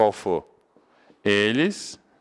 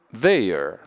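British accent. Shown as a demonstration. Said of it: "Se fosse britânico".

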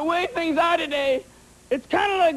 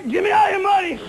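louder mock stick-up shout; mock robber yell; 4 semitones higher, 3 dB louder than usual. Kid robbing a subway rider, shouted mock demand. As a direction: bark it like a jumpy mugger. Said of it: "what were these kids thinking".

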